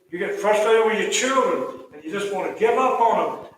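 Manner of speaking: loud, urgent pulpit delivery; impassioned preaching. Real, not acted. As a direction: press it home to the congregation. Preacher builds in intensity.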